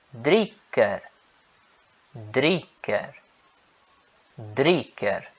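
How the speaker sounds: "dricker" with the final R sounded; R clearly pronounced. Shown as a demonstration. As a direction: say "dricker" slowly, R audible. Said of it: "eu tô pronunciando o R".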